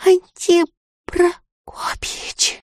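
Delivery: a slow, high, trembling whisper; breaking whisper. A narrator's reading. The terrified girl calls her beloved over the water, breaking whisper. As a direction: call the name in terror, barely a breath. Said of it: "срывающимся шёпотом позвала".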